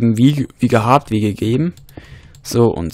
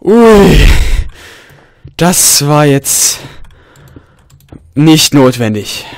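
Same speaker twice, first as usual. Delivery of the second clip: shocked; 4 semitones higher, 9 dB louder, much slower than usual. Real, not acted. Reacting to the creeper scare.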